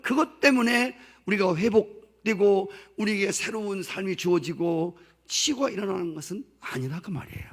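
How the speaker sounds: ordinary delivery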